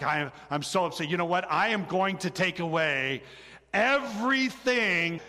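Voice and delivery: mildly imitating an upset mom's threat; retold anger. Pastor imitating his wife punishing the boys, mildly angry. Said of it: "in her, her anger".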